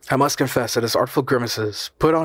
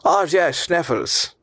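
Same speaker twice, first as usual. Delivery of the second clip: high start, dropping onto the name; mildly excited put-on uncle voice; exclaiming; 7 semitones higher, much slower than usual. A narrator's reading. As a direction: cry out in recognition. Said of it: "cried my uncle".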